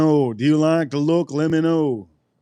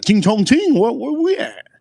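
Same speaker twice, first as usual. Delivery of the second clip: a much higher pitched mock stereotyped Asian accent; 9 semitones higher, 3 dB louder than usual. Drinking in honor of the Asians, crude mock Asian accent.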